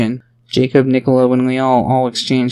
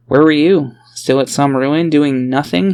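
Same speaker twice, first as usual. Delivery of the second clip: clapping back; 2 semitones higher, 3 dB louder than usual. Acted. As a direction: fire it back at him. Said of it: "he clapped back".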